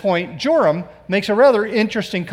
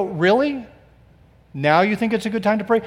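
sarcastic disbelief; 4 semitones higher than usual. Retold or imitated. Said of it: "And you go".

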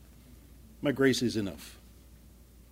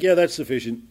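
emphatic quoted yeah; louder mock reply; 8 dB louder than usual. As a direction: punch out Yeah loud and bright. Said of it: "it's like".

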